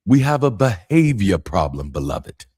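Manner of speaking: Iyanla Vanzant impression. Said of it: "that's me channeling Iyanla Vanzant".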